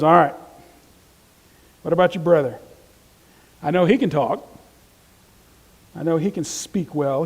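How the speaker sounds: a hint of an impatient God; a little irritated. Teacher voicing God mildly irritated at Moses' excuses. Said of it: "Now he's a little irritated. He goes".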